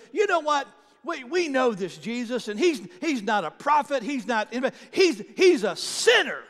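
loud, furious denunciation; angry shout. Acted. Religious leaders furious at the healed man, shouting. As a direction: bark it out, getting madder. Pharisees getting madder, shouting.

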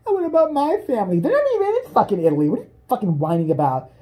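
high, fast whiny complaint; whiny housemate. Retold or imitated. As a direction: squeal the complaint. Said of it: "somebody else goes".

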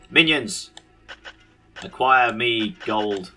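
booming villain order, then slow; evil overlord command. Pretend. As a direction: bark orders like a dungeon lord. Dark lord commanding his minions.

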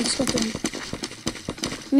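slow whispered repeat. Real, not acted. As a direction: breathe it out slowly, unvoiced. Repeated under breath.

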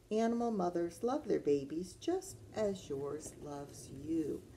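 patterned question and answer with lilting refrain; reading to children. Acted. Teacher reads animal mother pages to children, lilting storytime voice. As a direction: read it as a storytime call and answer.

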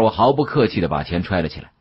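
usual speaking voice

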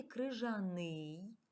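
«крижаний» said slowly, each vowel clear, the last И stressed; slow careful demo. Shown as a demonstration. Teacher to pupils demonstrating the stressed И, slow and careful. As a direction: drag out «крижаний» so the pupils hear every sound. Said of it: "останній И наголошений".

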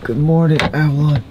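loud, cheerful morning greeting; wake-up call. Real, not acted. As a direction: call her awake through the door. Waking his daughter in cabin.

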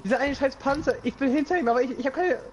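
high, loud exasperated yell; frustrated yelling. Real, not acted. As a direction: vent at the tank you can't kill. Frustrated at tank, no ammo.

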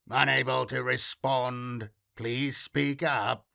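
slow, even machine voice; mechanical voice. Acted. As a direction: speak like a flat automated system. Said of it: "a mechanical voice replied".

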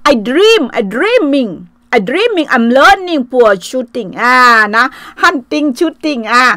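very slow, word by word English; slow broken English. Shown as a demonstration. Aunt insists to foreign police it was a dream, very slow English. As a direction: spell it out slowly in English.

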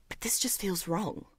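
soft, voiceless confession of unease; quiet unsettled whisper; uneasy whisper. Acted. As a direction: breathe it out, troubled. Uneasy admission.

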